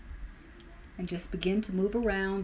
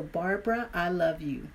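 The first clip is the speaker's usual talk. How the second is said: self-love affirmation. Shown as a demonstration. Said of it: "we say our name and "I love you".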